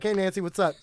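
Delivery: lightly voiced sister, lip smack first; quick lip smack, then a hint of her voice; sister's lip-smack voice. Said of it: "it's like a lip smack before she starts speaking".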